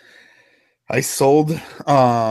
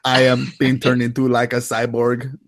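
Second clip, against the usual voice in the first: mock cyborg voice. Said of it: "You're like".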